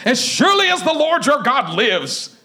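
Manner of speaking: mildly angry oath; mad. Acted. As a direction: swear it as a mad woman. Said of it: "And she got mad".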